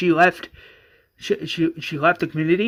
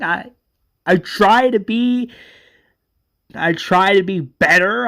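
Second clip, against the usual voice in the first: upset rant; 3 semitones higher, 4 dB louder than usual. Acted. Johnny ranting at governor.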